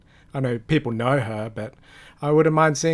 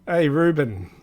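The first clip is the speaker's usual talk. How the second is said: put-on Australian accent; 2 semitones higher, slower than usual. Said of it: "just did an Australian accent".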